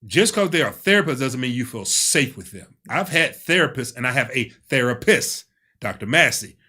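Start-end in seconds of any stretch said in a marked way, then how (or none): 0.0-2.8 firm, louder emphasis with weight on "safe"; emphatic. Real, not acted. Man warning listeners about trusting therapists, emphatic. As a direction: drive the point home, leaning on "safe". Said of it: "Let me emphasize that".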